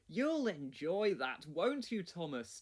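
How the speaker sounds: slow, teasing jab at Thomas. Acted. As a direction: rib Thomas about his plough slowly. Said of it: "teased Henry".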